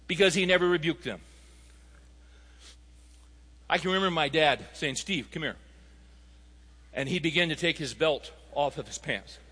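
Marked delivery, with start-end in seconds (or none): 5.0-5.6 quiet, even call of a father about to discipline; calm dad. Retold or imitated. Dad calling young Steve over before a whipping, calm and quiet. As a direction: summon the boy softly and firmly. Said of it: "he was very calm".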